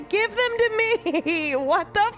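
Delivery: dramatic stretch. Acted. Reads dialogue option, then laughs.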